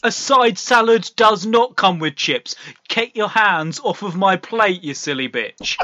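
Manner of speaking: loud, snapping chef tirade that drops off at the end; angry chef rant. Acted. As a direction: yell it like a furious TV chef. Acting out the angry chef date.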